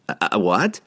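sleepy, hesitant question; yawning. A narrator's reading. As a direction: ask it through a yawn. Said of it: "Harkle yawned".

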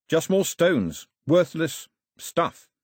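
understated scorn, drawn out; scornful dismissal. Acted. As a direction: dwell slowly on each word with disdain. Mao scornfully rejects the gods.

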